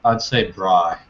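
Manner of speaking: braai said with a rolled r and long ai; Afrikaans word. Shown as a demonstration. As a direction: say braai like bry, as in South Africa. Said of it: "one word".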